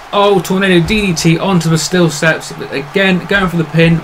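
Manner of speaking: lively play-by-play call; wrestling commentator. Acted. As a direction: hype up the match like a ringside announcer.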